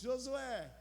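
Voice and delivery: high, loud commanding call; voice of God. Pretend. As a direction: proclaim it like God calling Josué. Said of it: "Eu imagino que Deus falou assim". (voz de Deus chamando Josué, alta e forte)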